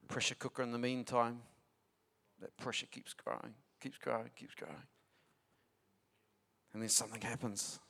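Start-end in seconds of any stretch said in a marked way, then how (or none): 2.4-4.9 fading repetition. Acted. Pressure building, repeated phrase.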